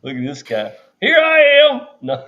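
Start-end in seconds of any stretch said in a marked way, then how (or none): 1.0-1.8 mock high voice. Voicing a protester mockingly.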